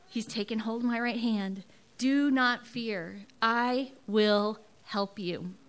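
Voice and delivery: slow, soothing recitation; repeated mantra. Real, not acted. Mother repeating her comforting mantra slowly. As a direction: hold on to it like a mantra. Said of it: "my mantra over and over".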